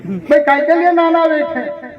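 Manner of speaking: pointed pulpit challenge; challenging preaching. Acted. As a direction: demand an answer from the congregation. Challenges congregation with rhetorical question.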